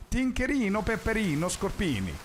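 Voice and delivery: high, playful mock Italian chant; sing-song mock Italian. Streamer voicing chat's brain in playful mock Italian. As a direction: lilt it like a cheesy Italian jingle. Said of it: "your brain's gonna be like".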